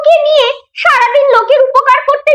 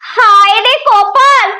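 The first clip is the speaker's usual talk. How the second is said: slow lament; much slower than usual. Acted. Mother laments son's mischief.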